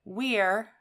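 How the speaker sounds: We're said as one syllable, "weer"; slow, careful teacher demo of We're; clear we're. Shown as a demonstration. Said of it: "So we have to say we're like this".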